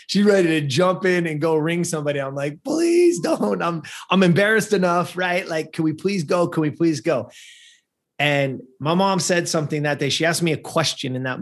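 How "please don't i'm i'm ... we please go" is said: high, anxious begging to just leave; desperate pleading. Retold or imitated. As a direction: plead with mom, embarrassed and near tears. Boy begs mom to just leave.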